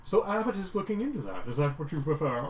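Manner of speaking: high, timid little man; nervous weedy voice. Acted. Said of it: "Abbott's weedy little nervous voice".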